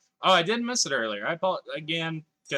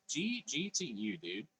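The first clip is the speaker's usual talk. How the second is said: soft; 10 dB quieter, slower than usual. Real, not acted. Repeats greeting softly.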